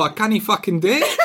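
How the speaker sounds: put-on jokey Scottish accent, half laughing; a giggly mock Scottish; slipping into Scottish. Friend refusing the dare, mock Scottish accent. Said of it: "he'll just go Scottish".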